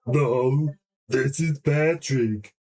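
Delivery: slow, dopey Patrick Star voice; slow, lightly voiced dopey starfish. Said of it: "I think he sounded like this".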